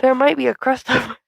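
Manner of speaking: lightly put-on pleading character; impression voice. Trying out an impression for the co-host, lightly put-on voice. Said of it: "That's my impression".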